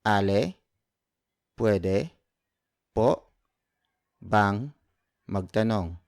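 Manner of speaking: each word of "Ale, pwede po bang magtanong?" said separately with pauses. Shown as a demonstration. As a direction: pause after every word, slowly. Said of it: "So word for word".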